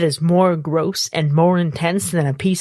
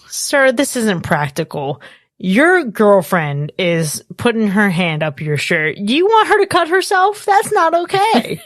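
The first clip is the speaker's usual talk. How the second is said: mock scolding; 2 semitones higher than usual. Talking to Brent on screen about the razor necklace, mock scolding. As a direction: scold him like a fussy chaperone.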